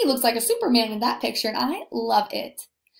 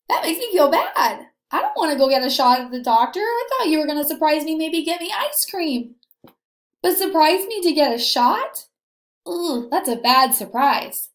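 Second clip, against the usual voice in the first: teacher playing a child dreading the doctor, whiny; mock whiny complaint; 3 semitones higher than usual. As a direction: whine like a child who doesn't want a shot. Child complaining about a shot.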